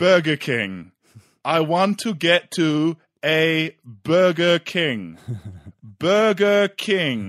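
booming, loud, slow, spelled-out English. Explaining how to ask directions without knowing the language: loud, slow english. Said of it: "in English real loudly and slowly".

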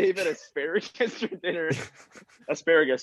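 talking through laughter. Telling friends a funny story about a label, laughing while talking. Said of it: "I'm kinda laughing too much here".

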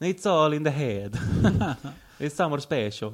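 loud, laughing, thick Italian accent.

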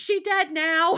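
put-on very high, very loud child's shriek, screaming. Retelling a five-year-old stepson's outburst at Les Mis: imitating a child screaming. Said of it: "he just screamed".

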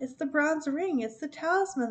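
glad, excited, joyful cry pitched high. Two mice run up at her cries and cry out joyfully. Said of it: "they cried, joyfully".

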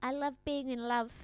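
put-on Irish accent. Imitating a contestant's opening line: irish accent.

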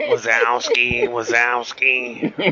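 cartoonish bossy woman character voice. Saying who she sounds like, in Monsters, Inc. boss lady voice. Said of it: "she sounds like that boss lady from Monsters, Inc".

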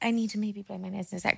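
very quiet, hushed half-whispered aside. Telling another speaker about needing to blow your nose: half-whispering. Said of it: "did you whisper that?".

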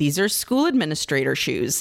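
ordinary talk, nothing marked

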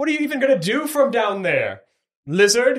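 very high, loud, laughing, jeering taunt. Voicing a flying tiefling taunting a player below: laughing taunt. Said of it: "laughing as she flies towards you".

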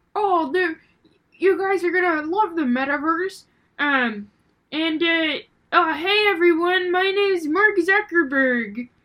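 high-pitched frog puppet voice. Showing how an impression sounds, introduce yourself as Mark Zuckerberg, sounding like Kermit the Frog. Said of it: "his impression of Mark Zuckerberg sounds like Kermit the Frog".

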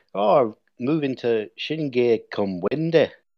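slow, vague, muddled northern English accent. Imitating someone answering where they are moving, unidentified put-on accent. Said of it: "Don't know what that accent was".

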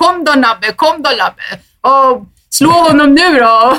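high, riled-up, mock angry shout. Recalling standing up on a bus to yell at a rowdy group, reenacted yell. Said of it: "började skrika".

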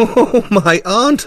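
manic, hysterical giggling, very high-pitched. A narrator reads a man's line after he drives a nail through a hand, giggling hysterically. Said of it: "he giggled hysterically".

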